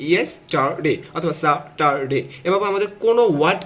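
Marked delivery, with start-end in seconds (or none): 0.1-2.2 "ইয়েস্টারডে", "স্যাটারডে" slowly split into three beats; broken into syllables. Shown as a demonstration. Teacher showing how to break words, syllable by syllable. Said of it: "যদি এভাবে ভাঙি".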